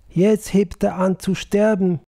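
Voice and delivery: a wife's frightened little cry at the deathbed; whimpering. Acted. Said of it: "wimmerte sie".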